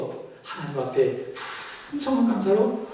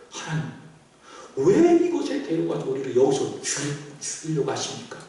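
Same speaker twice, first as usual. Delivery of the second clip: mock lament in a lowered voice; acted complaint. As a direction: play a resentful questioning of God. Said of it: "원망하는 거예요".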